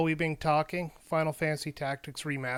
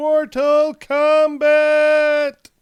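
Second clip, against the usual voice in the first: shrieked very high and very loud; 12 semitones higher, 16 dB louder than usual. Announcing next week's episode title: yelling the title. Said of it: "I don't know how to say it without yelling".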